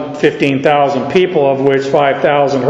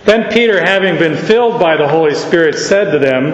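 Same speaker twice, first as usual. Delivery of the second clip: brisker pace on the second reading; quicker reading; faster than usual. Shown as a demonstration. Preacher rereading the verse briskly to the congregation. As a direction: pick up the pace, no dragging. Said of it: "oh, you are so slow".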